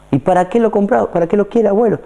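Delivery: shopkeeper asking. Acted. Shopkeeper voiced in story.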